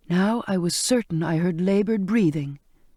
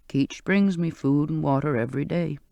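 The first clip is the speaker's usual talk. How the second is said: put-on old sailor's voice; 3 semitones lower than usual. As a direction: coax her gently to touch him. Old man explains.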